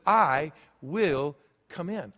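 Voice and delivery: slow, tender I will come in; tender promise. Acted. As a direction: promise it slowly and gently. Preacher voicing Jesus' promise.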